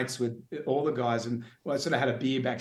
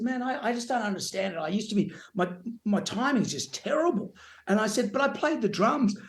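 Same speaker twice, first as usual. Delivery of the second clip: mock whining; 8 semitones higher than usual. Complaining to brother over beer.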